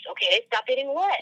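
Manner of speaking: high, baffled question; can't believe what you just heard; incredulous. Retold or imitated. Stunned reply to the voice.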